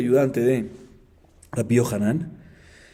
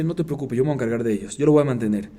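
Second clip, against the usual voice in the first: calm reassurance. Retold or imitated. Brother promising to support the children, mildly reassuring. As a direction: brush the worry aside evenly. Brother calmly answers the plea.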